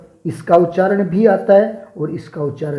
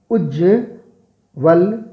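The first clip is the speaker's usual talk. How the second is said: drawn-out reading; much slower than usual. Shown as a demonstration. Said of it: "शुद्ध शब्द कौन सा होगा".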